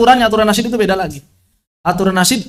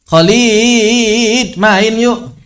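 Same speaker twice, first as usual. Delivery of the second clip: friend calling out; 3 semitones higher, much slower than usual. Retold or imitated. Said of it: "Orang Indonesia manggil Khalid apa".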